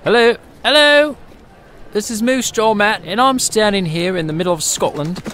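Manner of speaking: a hammed-up Scottish reporter who nearly gets run over; put-on Scottish accent. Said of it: "I don't really have a Scottish accent".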